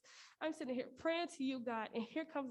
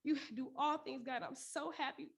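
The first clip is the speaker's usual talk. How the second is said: prayer. Real, not acted. Prays aloud alone in car.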